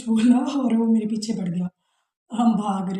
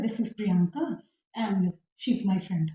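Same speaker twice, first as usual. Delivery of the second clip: slow, lightly put-on posh English; a hint of a pompous friend, said slowly; mock sophisticated; much slower than usual. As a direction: mimic a friend showing off his English slowly. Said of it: "इतना बड़ा sophisticated होके बोल रहा है".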